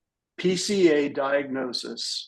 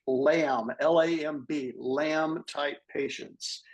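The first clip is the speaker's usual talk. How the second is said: reading a prepared statement. Acted. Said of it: "I'm gonna read this".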